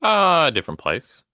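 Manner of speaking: big hall echo; echoey room. Real, not acted. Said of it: "Why do you sound echoey?".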